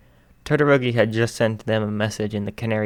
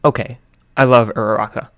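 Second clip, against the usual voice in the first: grinning; 7 dB louder than usual. A narrator's reading. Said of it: "Shinso grinned".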